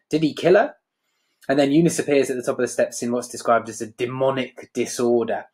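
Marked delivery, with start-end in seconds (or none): 0.1-0.8 brightly. Acted. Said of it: "Blanche says brightly".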